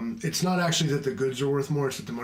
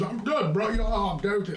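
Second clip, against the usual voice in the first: high, breezy mock "I'm good, bro"; mock automatic reply; 9 semitones higher, 3 dB louder than usual. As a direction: toss off the reflex answer, lightly. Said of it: "the automatic reaction is".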